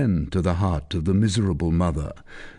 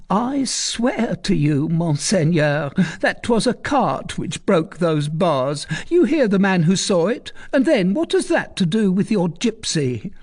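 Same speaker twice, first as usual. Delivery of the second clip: tearful; 10 semitones higher than usual. Acted. Recluse pleading with Tristan, tearful. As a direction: beg him through the tears. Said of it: "a voice that was full of tears".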